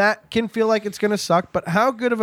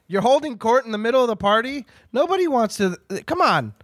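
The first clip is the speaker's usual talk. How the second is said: mock scolding; 4 semitones higher than usual. Mock scolding of storyteller at party.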